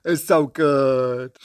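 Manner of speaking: loud, drawn-out gushing; savouring exclamation of sheer admiration; overcome with admiration. Real, not acted. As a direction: wail it in delight, slowing on the praise.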